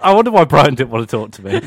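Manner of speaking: laughing as you speak; real laughter running through the words; amused wondering. Real, not acted. Naked player reflects on being snubbed, laughing. Laughing at his own predicament.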